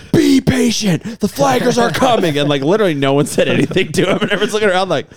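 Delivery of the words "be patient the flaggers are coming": imitating a bossy friend, higher and louder; hammed-up order to be patient; mock bossy Jeremy. Mocking his friend's order to the riders, higher and louder. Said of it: "he's like".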